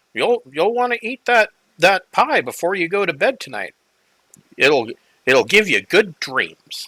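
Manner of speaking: put-on high, friendly, kindly little old woman voice. Voicing a friendly little old lady introducing herself: friendly little old lady voice. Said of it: "She says".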